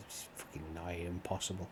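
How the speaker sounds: hushed, frustrated aside; whispering. Real, not acted. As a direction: whisper it under your breath.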